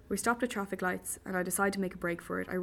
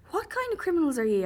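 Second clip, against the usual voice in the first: mocking indignation; 9 semitones higher, 6 dB louder than usual. Captive mocks kidnappers' missing blindfold.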